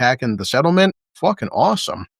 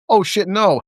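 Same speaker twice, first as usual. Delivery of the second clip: shocked outburst; alarmed; 6 semitones higher than usual. Retold or imitated. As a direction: react in alarm. Quoting a shocked character.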